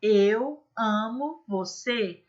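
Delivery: slow, one word per jump; slow skipped phrase. Shown as a demonstration. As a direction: pace each word like a rope skip. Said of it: "Eu posso estar pulando corda".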